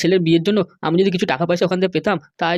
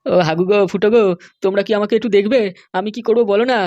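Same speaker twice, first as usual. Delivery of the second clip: raised, pleading cry for help; pleading call; 2 semitones higher, 3 dB louder than usual. Acted. MLA calling out to Hagu and Phuto, pleading. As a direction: beg them loudly not to abandon you.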